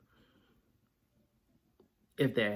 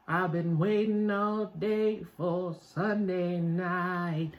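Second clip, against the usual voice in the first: excited; 6 semitones higher, slower than usual. Real, not acted. Eager for the night game.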